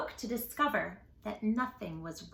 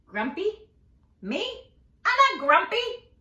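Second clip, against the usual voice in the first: higher and louder denial; indignant monkey; 8 semitones higher, 7 dB louder than usual. Acted. Jim denying to Marabou, high indignant protest. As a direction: protest that you're not grumpy.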